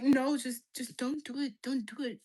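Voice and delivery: put-on Nigerian accent. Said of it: "Your dad sounds Nigerian".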